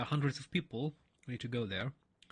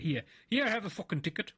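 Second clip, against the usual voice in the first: fed-up hand-over; 6 semitones higher, 3 dB louder than usual. Retold or imitated. Lady hands ticket in disgust.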